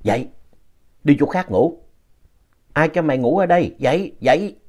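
a hint of a scolding apparition; lightly voiced ghost woman. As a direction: imitate a strange woman rousing a sleeper. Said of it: "mẹ nghe có tiếng của một người đàn bà nói".

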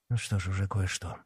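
softly, half to himself; quiet. A narrator's reading. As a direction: say it low and soft. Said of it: "тихо произнёс он". (тихо, себе под нос)

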